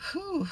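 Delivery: high, falling whew; relieved whew. Real, not acted. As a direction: let out a whew after an ordeal. Exhales over the hard encounter.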